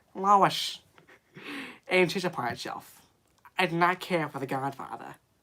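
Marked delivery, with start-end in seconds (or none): 3.6-5.2 put-on Boston accent, quieter. Saying a line while a listener remarks on how he sounds, in a Boston accent. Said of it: "He sounds Boston".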